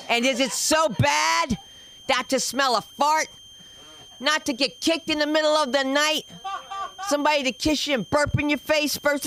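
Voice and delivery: high, insistent pleading; mock plaintive. Comic to the audience about lonely nights, high mock plea. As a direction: plead it up high, leaning on each word.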